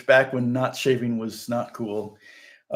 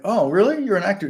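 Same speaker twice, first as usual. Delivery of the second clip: higher-pitched, questioning surprise; retold surprise; 5 semitones higher than usual. Traveler learns the stranger is an actor, retold surprise. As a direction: act out mild surprise at the news.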